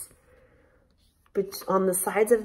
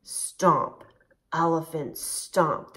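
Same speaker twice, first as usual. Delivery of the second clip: heavy stomps; 3 semitones lower, much slower than usual. Shown as a demonstration. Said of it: "Stomping like an elephant".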